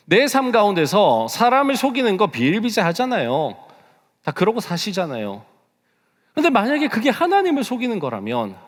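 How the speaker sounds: high, loud, pressing sermon delivery; forceful preaching. Real, not acted. (힘주어 외치는 설교)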